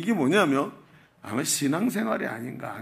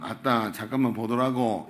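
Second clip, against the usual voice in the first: lightly imitated Jeolla accent; joking Jeolla dialect quote; 4 semitones lower than usual. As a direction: say it like a Jeolla local. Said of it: "전라도 사람".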